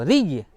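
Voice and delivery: रिय with a thin r and held doubled y; light र, then press into the y of रिय; shown pronunciation. Shown as a demonstration. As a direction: model रिय for students to copy. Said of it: "इस तरह करो".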